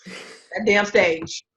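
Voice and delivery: very slow, each word dragged out; slow emphasis. Real, not acted. Telling the guest what sold her, slowly. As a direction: linger on every word.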